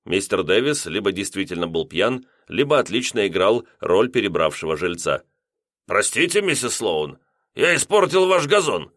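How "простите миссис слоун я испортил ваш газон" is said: higher, overdone sorry; drunk apology. A narrator's reading. Lodger apologizing to landlady, hammed-up tipsy. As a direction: gush an apology like a tipsy man.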